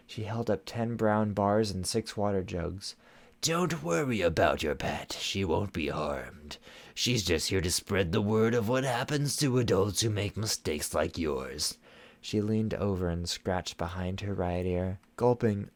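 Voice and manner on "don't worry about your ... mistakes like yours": cold stern sorceress. Acted. Shadow Weaver taunting.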